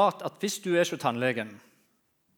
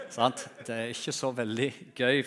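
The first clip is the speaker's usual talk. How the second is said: normal talking voice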